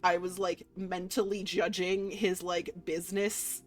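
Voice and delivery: flustered. Real, not acted. Flustered after the mage appears.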